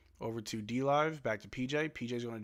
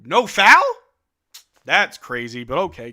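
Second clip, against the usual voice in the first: loud, pitched-up shout of disbelief at the refs; outraged disbelief; 5 semitones higher, 18 dB louder than usual. Real, not acted. Fan shouting at the referee over a no-call, loud and incredulous. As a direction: yell at the missed call.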